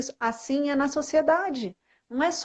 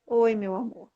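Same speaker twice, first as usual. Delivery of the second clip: sweet greeting; 2 semitones lower than usual. Shown as a demonstration. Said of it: "Então, é um exercício".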